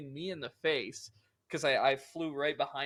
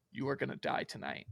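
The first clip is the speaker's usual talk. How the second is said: creepy sleep voice; 7 dB quieter than usual. Retold or imitated. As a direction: murmur it like something possessed. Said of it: "in a voice that ... he didn't think I could replicate".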